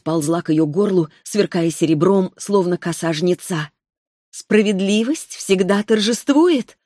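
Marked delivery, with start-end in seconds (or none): 4.3-6.8 put-on higher, slow girl's voice with cold resolve; a child spirit passing sentence, unhurried; sweet young voice. Spirit pins Io down.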